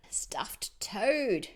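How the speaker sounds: unvoiced whisper. Owl whispering what's for dinner. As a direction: breathe it out secretly.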